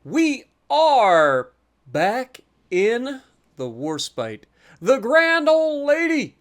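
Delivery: drawn-out, grand announcer delivery; dramatic show intro. Pretend. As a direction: stretch each word for a big reveal. Hyped show-style intro of the ship.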